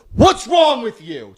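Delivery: mock indignant outburst; retold rebuke. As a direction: imitate a man telling off his date, slowly. Retold man snapping at the woman.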